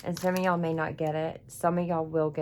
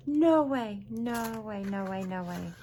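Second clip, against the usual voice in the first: amazed disbelief; 4 semitones higher, slower than usual. Real, not acted. Fan finding an item from the missed convention, amazed disbelief. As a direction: start high and astonished, fade into stunned disbelief.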